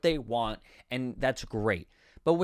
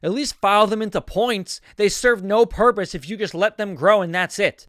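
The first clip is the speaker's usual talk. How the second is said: louder, hammed-up bickering; mock exasperated; 2 semitones higher, 5 dB louder than usual. Joe criticizes Shelly's fingernails, mock exasperated. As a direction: argue back with mild overacted exasperation. Acted quarrel from the script.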